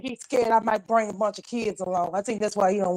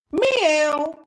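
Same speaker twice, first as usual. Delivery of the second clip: cat meow; 6 semitones higher, 3 dB louder than usual. Pretend. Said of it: "Y'all hear her get mad?".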